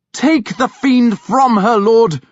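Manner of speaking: high, loud, slow commanding cry; shouted exorcism. A narrator's reading. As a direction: command the demon out with full force. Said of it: "he called".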